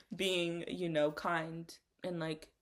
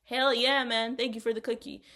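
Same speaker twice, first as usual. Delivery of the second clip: loud, higher pitched hell yeah; excited thanks; 4 semitones higher, 6 dB louder than usual. Pretend. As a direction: whoop your thanks for the cookie. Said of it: "I'm gonna be like".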